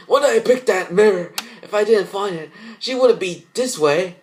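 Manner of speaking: high, loud anguished lament; guilty wail. Acted. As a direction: wail it out in self-blame. Guilty girl blames herself.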